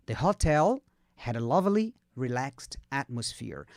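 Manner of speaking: slow model reading. Shown as a demonstration. Teacher modelling the hotel sentence for repetition, slowly with pauses. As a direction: break it up slowly for learners. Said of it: "Pega devagarzinho".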